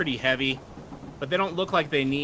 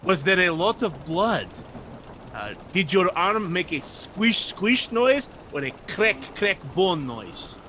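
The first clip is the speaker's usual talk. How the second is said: eager gore lover; 3 semitones higher than usual. Acted. Sailor asking the druid about gory details, eagerly relishing. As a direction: savor every gory sound word. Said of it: "he enjoys to look at the violence".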